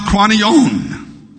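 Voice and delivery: "Kranion" said as kwah-nee-OHN; slow, measured "Kranion" with a long last syllable; Greek pronunciation. Shown as a demonstration. Preacher teaching the Greek for Calvary, pronouncing "Kranion". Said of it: "is pronounced".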